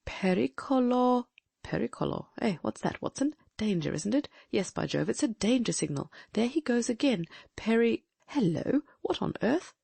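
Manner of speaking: urgent, puzzled sleuth; excited detective voice. Acted. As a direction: decode the signal with rising alarm. Holmes voiced in a reading.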